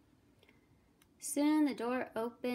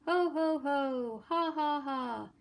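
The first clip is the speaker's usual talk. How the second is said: two spoken laughs, each high, loud and falling; hammed-up "ho ho, ha ha" of two pigs; acted mocking laughs; 4 semitones higher, 4 dB louder than usual. A narrator's reading. Two lazy little pigs laughing at their brother, mocking laughs. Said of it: "laughed the two lazy little pigs".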